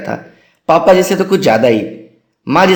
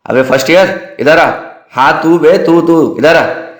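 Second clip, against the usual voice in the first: senior calling out; 2 semitones higher than usual. Retold or imitated. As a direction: bark for the fresher to come over. Senior summons first-year in mess.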